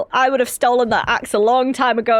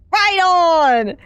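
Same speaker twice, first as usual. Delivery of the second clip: higher, louder happy exclamation; cheerful cheer; 4 semitones higher, 4 dB louder than usual. Acted. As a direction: cheer like a chipper crewmate. Cheerful crewmate agrees.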